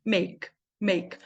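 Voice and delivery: "make" as meyk, one syllable. Shown as a demonstration. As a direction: silent E in "make". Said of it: "esse A tem som de E".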